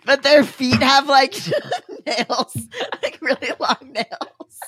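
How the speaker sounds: slowed words broken by giggles; barely getting it out through laughter; real laughing fit mid-sentence. Real, not acted. Giggling while describing the picture.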